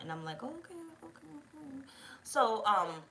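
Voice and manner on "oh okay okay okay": high and very soft, knowing sarcasm; sarcastic okay. Retold or imitated. Woman answers her date's money views, high quiet sarcasm. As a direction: let him know you are not buying it.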